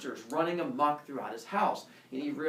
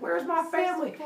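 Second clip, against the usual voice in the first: high, loud mock-furious demand; threatening; 5 dB louder than usual. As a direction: shout a threat at monsters, hammed up. Heracles threatening the monsters.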